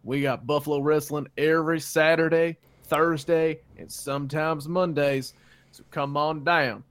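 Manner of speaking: cheesy local ad read; ad announcer. Acted. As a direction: pitch it like a backyard TV ad. S0 performs a fake radio ad.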